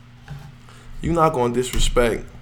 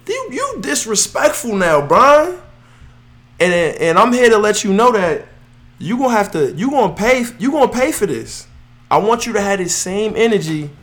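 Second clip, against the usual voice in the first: heated call-out; 7 semitones higher, 4 dB louder than usual. Real, not acted. Calling out LeBron on podcast.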